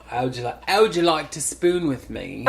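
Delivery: put-on Cockney song-title delivery; strong Cockney accent. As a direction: say it in broad, playful Cockney. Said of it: "with a super strong Cockney accent".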